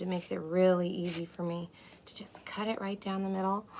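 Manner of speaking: ASMR whisper. Acted. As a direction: breathe the words like a secret. Whispered cooking instruction.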